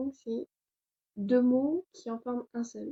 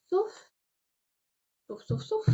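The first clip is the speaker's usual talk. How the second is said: "sauf" repeated much higher, in a sing-song; 11 semitones higher, slower than usual. Acted. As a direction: chant "sauf" up high like a teasing warning. Playful warning in lesson.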